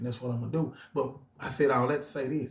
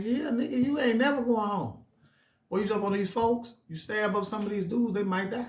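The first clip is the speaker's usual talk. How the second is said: pitched way up, pressing hard; heated warning; 8 semitones higher than usual. Retold or imitated. Big homie warning youngsters about stabbing, high and heated. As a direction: talk sense into them, fast and high.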